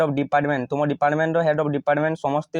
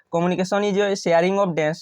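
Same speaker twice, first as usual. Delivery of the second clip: slow dictating voice; slow dictation; much slower than usual. Shown as a demonstration. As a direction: spell the answer out very slowly. Teacher reads answer aloud.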